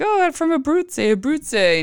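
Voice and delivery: high, put-on eager voice; imitating husband's boast. Imitates husband claiming Italian roots.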